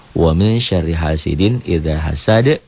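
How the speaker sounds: slow recitation, final d of "hasad" bounced; qalqalah kubro. Shown as a demonstration. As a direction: recite it slowly, stopping on "hasad" with an echo. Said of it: "qalqalah kubro". ("hasad" dipantulkan di akhir)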